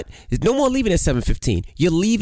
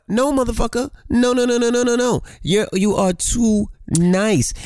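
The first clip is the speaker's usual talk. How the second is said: mock scolding; 6 semitones higher, slower than usual.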